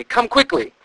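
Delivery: yelling. A narrator's reading. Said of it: "she yelled loudly".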